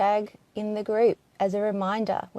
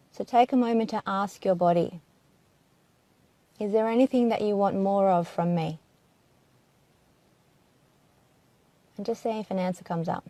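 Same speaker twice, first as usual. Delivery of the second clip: calm, unhurried body-scan voice with long pauses; gentle meditation guide, leaving space after each phrase; guided meditation. Acted. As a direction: ease listeners into their bodies, phrase by phrase. Guides listeners to ask the body.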